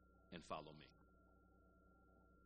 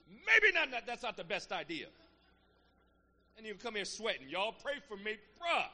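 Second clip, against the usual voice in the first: much louder, higher comic outburst; mock alarm; 11 semitones higher, 18 dB louder than usual. Preacher joking to congregation about temptation, loud comic burst. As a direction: sell the joke big.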